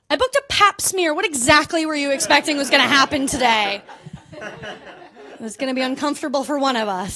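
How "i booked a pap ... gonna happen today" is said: incredulous, pointed question; sarcastic retort. Retold or imitated. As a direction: needle her with sarcasm.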